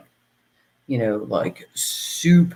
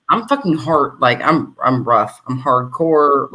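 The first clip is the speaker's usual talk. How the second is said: lower, tough-guy voice, slowing on hardcore; manly deep voice; 3 semitones lower, 3 dB louder than usual. Retold or imitated. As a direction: play up a rough hardcore guy. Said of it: "very manly, I think, and deep".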